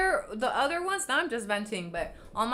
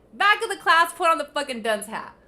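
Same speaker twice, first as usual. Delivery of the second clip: louder, mocking teacher-like yell; angry scolding shout; 5 semitones higher, 10 dB louder than usual. Real, not acted. Vlogger scolding trolls like a teacher, angry shout. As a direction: send them to the corner, furious.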